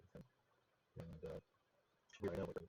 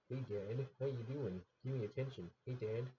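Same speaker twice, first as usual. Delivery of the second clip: voicing the cat; 5 semitones higher than usual. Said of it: "the damn cat's like".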